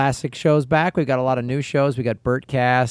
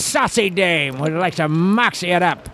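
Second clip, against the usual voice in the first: put-on old-timey mob voice; 3 semitones higher than usual. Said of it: "The old-timey mob voice?".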